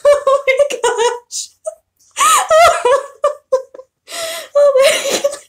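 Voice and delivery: high, squeaky, laughing till tearful; helpless laughter. Real, not acted. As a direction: barely get the words out for laughing. Helpless laughter at own story.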